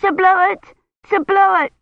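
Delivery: put-on high, loud excited child's call; child shouting. A narrator's reading. Little Agnes calls to Sir Bloet, shouting gleefully. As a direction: call out to him as you run up. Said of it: "Agnes ran up shouting".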